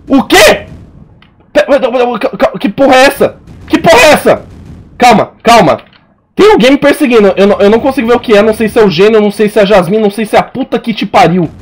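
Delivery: high, loud frantic panic; stammering in real fright; panicked. Real, not acted. Chased by unseen monster in game.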